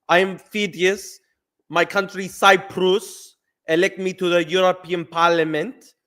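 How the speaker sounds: a hint of a Greek-Cypriot politician's accent; Phidias accent. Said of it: "I'll do a Phidias accent".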